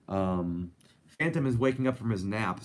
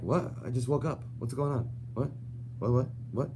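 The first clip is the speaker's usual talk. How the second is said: cat voice; 3 semitones higher than usual. Pretend. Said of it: "And he's like".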